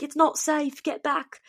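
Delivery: high-pitched imitation of a shouting cop; mock police officer yell. Cop on a bridge warning visitors, high-pitched mock yell. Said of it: "he's yelling at you".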